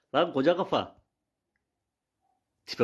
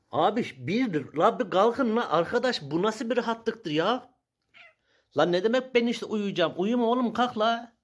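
raised, drawn-out complaint; begging them to move, voice climbing; exasperated pleading; 5 semitones higher, slower than usual. Real, not acted. To the lazy animals, an exasperated raised plea.

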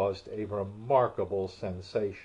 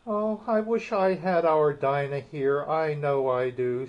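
wistful aloud; 4 semitones higher, 4 dB louder than usual. Acted. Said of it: "said Alice aloud".

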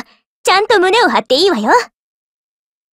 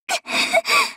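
high haughty laugh; 5 dB quieter than usual. Acted.

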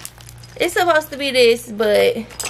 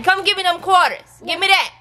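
firm, raised mom voice demanding; mama voice; 2 semitones higher than usual. Real, not acted. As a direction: put on the stern mama voice. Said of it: "Gotta get my mama voice on".

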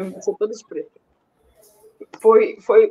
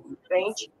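ordinary talk

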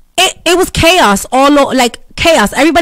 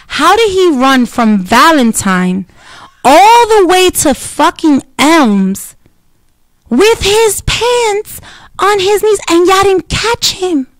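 incredulous; 5 semitones higher, slower than usual. Real, not acted. Incredulous at cops losing homeless man.

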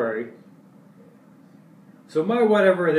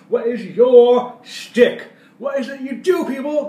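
emphatic question; 6 semitones higher, 5 dB louder than usual. Real, not acted.

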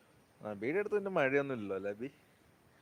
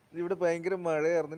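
louder, projecting over the line; speaking up; 3 semitones higher, 7 dB louder than usual. Real, not acted. Streamer telling viewers about the rain, speaking up. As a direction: say it louder so it carries.

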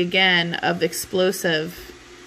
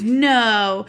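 drawn-out, louder no; stubborn refusal; 3 semitones higher, 5 dB louder than usual. Retold or imitated. Romeo refusing the friar's order to hide, stubborn. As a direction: dig in and stretch out the refusal.

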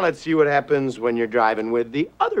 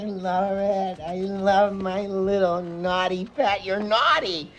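put-on higher, doting voice of a simple circus boy; idiot circus boy; 5 semitones higher, slower than usual. Salesman cooing at his possible sale like Jojo. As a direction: coo over the pet like a silly circus boy. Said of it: "I'm like Jojo, the idiot circus boy".

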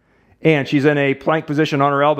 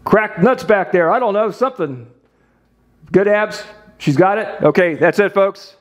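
higher, urgent calls of quick, quick with laughs; rapid-fire directions, half laughing; excited coaching; 3 semitones higher than usual. Real, not acted. Therapist directing Abby's pushes on Sammy, excited and laughing.

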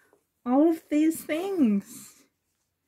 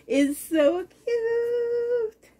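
tearful; 9 semitones higher, much slower than usual. Real, not acted. Overwhelmed opening baby gifts.

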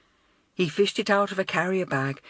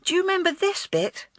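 put-on much higher, excited girl's exclamation; eager pointing-out cry; exclaiming; 12 semitones higher than usual. A narrator's reading. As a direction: schoolgirl bursting with excitement. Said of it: "she was exclaiming".

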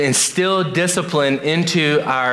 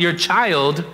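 put-on preacher stressing "child" with a rising tune. Shown as a demonstration. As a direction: lean on "child" with a lift at the end. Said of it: "emphasis on that word".

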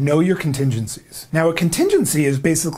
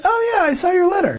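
pleased recognition. Pretend. Prospect recalls the letter.

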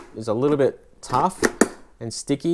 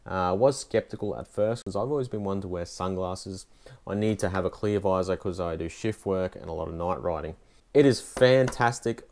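speaking through full-face helmet; muffled inside a helmet. Real, not acted. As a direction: voice behind closed visor. Seen 0: Speaker wears full-face helmet with visor throughout; removes it at 5.1.

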